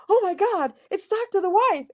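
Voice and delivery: retold fan's delighted recognition; excited fan. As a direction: call it out high, as if spotting a celebrity. Retells a fan recognizing her.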